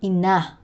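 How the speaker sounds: Ina with stress on the final -na; stress on last syllable. Shown as a demonstration. Teacher showing Tagalog end stress to learners, final syllable stressed in Ina. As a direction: land the weight on the end of Ina. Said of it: "end stress laid on the last syllable".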